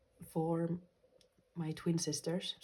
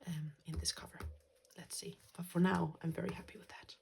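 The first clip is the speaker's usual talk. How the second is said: whispering. Real, not acted. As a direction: whisper it close to the mic. Quiet crafting aside.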